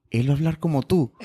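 quoting the in-laws with a laugh; laughing quote. Retold or imitated. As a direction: laugh through the family's worry. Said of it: "el miedo de su familia es". (citando a la familia entre risas)

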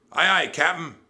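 high, loud crew reply; obedient pirate crew. A narrator's reading. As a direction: shout back obediently. Crew answers the captain.

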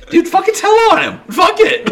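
high, fast, indignant retold plea; imitated urgent urging. Teller urging Poops to tell on Farmer, retold urgent outburst.

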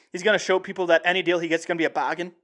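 quick, lightly attempted Australian accent. Radio host imitating a pitcher for humor, light Australian accent. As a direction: have a modest go at an Australian accent. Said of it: "I'll do my best Australian accent here".

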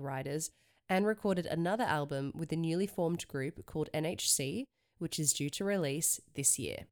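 measured headline reading; news read. Acted. Reads music news headlines.

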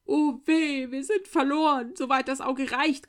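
high, loud cry of horror; old widow crying out in horror at the snakes; horrified cry. A narrator's reading. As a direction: cry out in terror. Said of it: "erstarrte vor Entsetzen".

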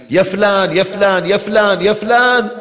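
calling a servant, rising a bit; mock calling yell; mild calling out. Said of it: "الإمام يصيح على واحد".

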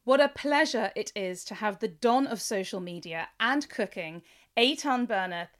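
scripted host introduction, measured and clearly phrased; presenter reading a prepared show opening; podcast intro. Acted. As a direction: introduce the guest to listeners.

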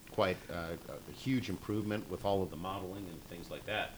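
talking off-mic, turned away; speaking past the microphone; out of mouth corner. Real, not acted. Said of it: "Microphones work better if you talk into them".

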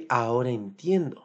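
ordinary delivery

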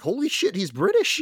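high, loud retold amazement breaking into laughter; hammed-up shock, pitch shooting way up; mock astonishment. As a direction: blurt it out, imitating a stunned discovery. Retelling Affleck's astonished discovery.

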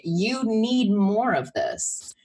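slow, drawn-out voice of your own body; lightly voiced inner body, slow; body's voice. Friend voicing the body's message to her, slow and drawn out. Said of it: "your body saying".

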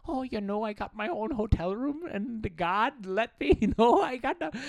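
high mock Tammy gushing; laughing through a mock wife. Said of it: "here's Tammy".

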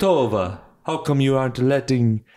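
light put-on Jamaican accent; attempted Jamaican accent. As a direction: have a shaky go at a Jamaican accent. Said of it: "I was doing that accent".

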